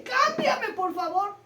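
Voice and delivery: one last desperate please; urgent plea. Retold or imitated. Jacob's last loud plea to God.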